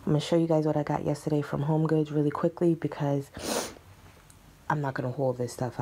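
fast hushed whisper; whispering just woke up. Real, not acted. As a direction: whisper it quickly. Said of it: "I literally just woke up, so excuse my voice".

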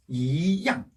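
"이" rising in second tone before a strong "양"; weak rising "이", strong falling "양". Shown as a demonstration. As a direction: say "이" rising, then drop firmly on "양". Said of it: "이성이었죠".

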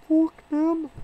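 high, loud yelled curse; spat curse. Retold or imitated. Quoting a hateful attitude, mock yelled curse. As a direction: blurt it out in contempt.

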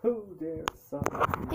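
booming, high, slow genie. Acted. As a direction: boom it out like a genie. Copies the genie line.

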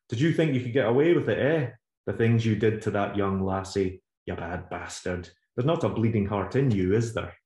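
taunting rant. Acted. Agnes berating the man.

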